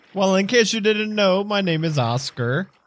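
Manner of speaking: very high-pitched froggy puppet voice. As the town's boatman, introducing himself to a fellow Kuotoa, in a Kermit-like voice. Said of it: "Someone's in the boat. ... I'm the boatman of the town. ... My voice keeps changing to like Kermit on accident. ... I've just fully bent into the Kermit".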